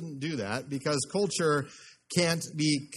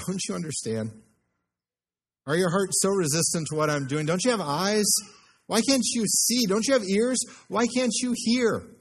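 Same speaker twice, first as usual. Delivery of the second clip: pleading Jesus; 4 semitones higher than usual. Acted. Preacher as Jesus pleading with his disciples, building urgency.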